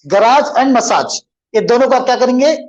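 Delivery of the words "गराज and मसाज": गराज and मसाज each with a long "aaj"; lengthened endings. Shown as a demonstration. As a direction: draw out the second syllables of गराज and मसाज. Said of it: "खींचेंगे".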